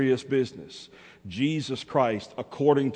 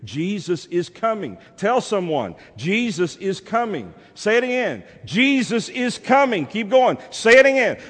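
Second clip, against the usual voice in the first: raised preaching climbing to a high shout; building rallying cry; 10 semitones higher, 7 dB louder than usual. Real, not acted. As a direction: whip the congregation up, louder each round. Rallying congregation to repeat refrain.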